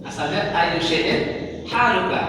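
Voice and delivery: "ayu syai'in haluka" said slowly, stressing "ayu"; Arabic origin phrase. Shown as a demonstration. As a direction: teach the full Arabic form. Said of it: "Nah, ini asalnya nih".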